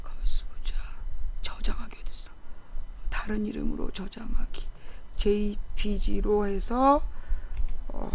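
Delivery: very soft, low, drawn-out self-talk; muttering to oneself. Real, not acted. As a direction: murmur absently while busy saving a file. Talking to self while saving capture.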